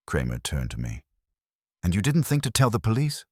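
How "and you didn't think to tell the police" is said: exasperated cop. Acted. Inspector scolds narrator.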